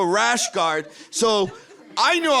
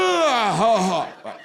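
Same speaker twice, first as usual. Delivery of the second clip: strained laugh; 3 semitones higher than usual. Pretend. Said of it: "in one breath".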